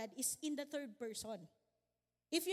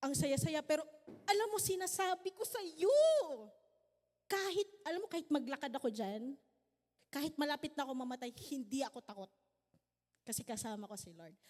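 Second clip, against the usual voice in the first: storyteller energy; 3 dB louder, faster than usual. Retold or imitated. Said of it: "parang nagkikwento na".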